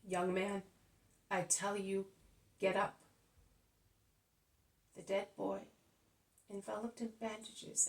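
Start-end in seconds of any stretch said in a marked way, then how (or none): 0.0-3.0 louder, commanding call; full-voiced command. Jesus to the dead young man, commanding loudly. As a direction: order the dead to rise. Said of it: "in the full strength of his voice".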